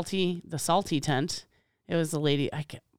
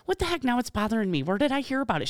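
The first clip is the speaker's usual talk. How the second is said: high puzzled voice; puzzled vendor; 5 semitones higher, faster than usual. Retold or imitated. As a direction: wonder aloud, high. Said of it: "And she's like".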